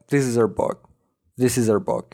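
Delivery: "her" without h, linked as "iz-er"; casual dropped H. Shown as a demonstration. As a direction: run "is her" together as "izzer". («her» عامیانه و بدون H)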